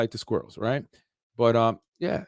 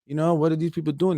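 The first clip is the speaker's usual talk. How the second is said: mock insurance company; 4 semitones higher than usual. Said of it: "That's what your insurance company is gonna say".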